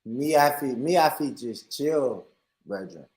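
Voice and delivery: slow, badly faked Jamaican patois; unconvincing Jamaican put-on; put-on Jamaican accent. Shown as a demonstration. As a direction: try a laid-back Jamaican accent. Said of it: "you put on that accent".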